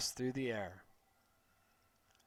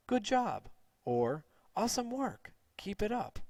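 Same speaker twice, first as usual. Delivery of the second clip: cheery praise; 5 semitones higher than usual. Acted. Cheerful teacher praising students.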